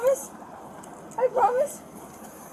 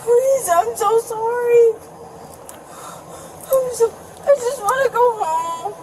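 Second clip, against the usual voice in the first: crying. Real, not acted. Crying in handcuffs.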